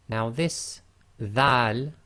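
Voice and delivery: slow, careful dhal sound; Arabic dhal. Shown as a demonstration. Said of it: "be very careful of the pronunciation".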